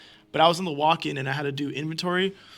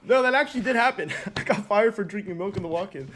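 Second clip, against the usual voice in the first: laughing; 2 semitones higher than usual. Real, not acted. Laughs after the call.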